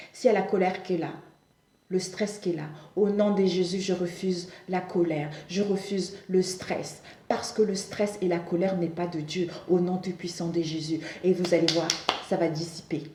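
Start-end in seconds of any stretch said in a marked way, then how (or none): 0.1-11.0 soft, deliberate prayer declaration; hushed, measured invocation; prayer of refusal. Shown as a demonstration. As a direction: renounce it quietly and firmly, phrase by phrase. Models a prayer refusing stress.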